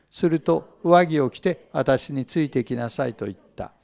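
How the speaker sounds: 聖書を朗読する落ち着いた声; 一節ずつ、ゆっくり丁寧に読み上げる; scripture reading. Acted. Reads scripture passage. (会衆に向けて聖書を朗読する声)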